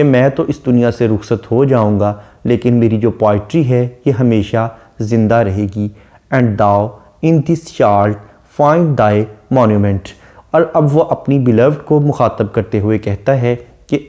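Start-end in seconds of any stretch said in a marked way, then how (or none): 6.3-10.1 poem recitation. Shown as a demonstration. Reciting the closing couplet.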